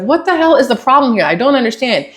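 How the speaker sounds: frustrated customer challenge, easing after the first burst; a little heated. Retold or imitated. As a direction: retell your exasperated demand with some heat. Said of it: "I got a little heated".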